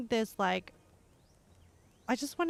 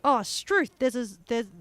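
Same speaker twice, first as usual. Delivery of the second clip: mock surprise; 4 dB louder than usual. Shown as a demonstration.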